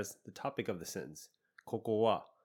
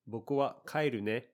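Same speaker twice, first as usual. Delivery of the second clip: gentle, friendly lift on ne; friendlier. Shown as a demonstration. Telling a friend you're heading home, friendly and gentle. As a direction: say it kindly, acknowledging them. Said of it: "This sounds much friendlier".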